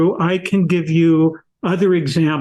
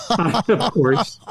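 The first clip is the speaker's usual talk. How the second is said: soft laugh into a higher, softer repeat; amused at the obvious; 4 semitones higher, 3 dB quieter than usual. Real, not acted.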